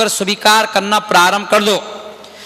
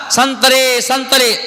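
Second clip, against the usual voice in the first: hawker's shout; 4 semitones higher, much slower than usual. Retold or imitated. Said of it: "यही तो चिल्ला रहा है बाहर".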